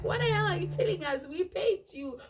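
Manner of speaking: high, loud outraged yelling; furious customer shouting over the bill; lost my mind. Retold or imitated. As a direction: yell it like you've completely lost it. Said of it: "I lost my mind".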